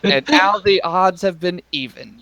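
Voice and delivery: slow, measured taunt from a small villain; hint of a theatrical kobold. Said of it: "kobold's like".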